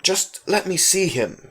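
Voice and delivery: insist, losing patience; annoyed boy demanding to see his friend. A narrator's reading. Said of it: "he demanded, getting annoyed".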